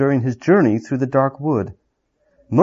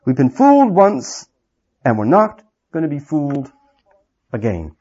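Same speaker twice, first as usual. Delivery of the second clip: much higher, faster mocking jab; sneering dwarf; 3 semitones higher, 3 dB louder than usual. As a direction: toss off the sarcasm quickly. Griffle sneers.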